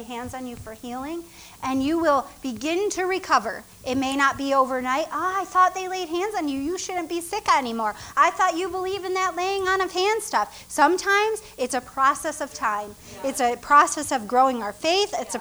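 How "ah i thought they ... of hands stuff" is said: lightly voiced skeptic, higher; mock doubter. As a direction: needle the believer a little. Mocking a doubting churchgoer.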